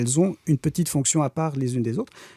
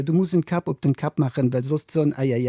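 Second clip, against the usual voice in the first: put-on French accent. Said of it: "l'accent français".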